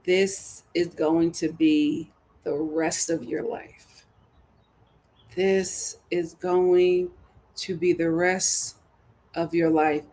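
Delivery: very slow, halting words; drawn-out warning; slow emphasis. Real, not acted. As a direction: spell out the grim future word by word. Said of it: "slowed repeat for emphasis".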